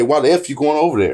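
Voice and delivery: a touch of aggression on "F"; mock angry why the F; cussing version. Shown as a demonstration. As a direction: hit "F" with mild heat. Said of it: "It's a whole different meaning".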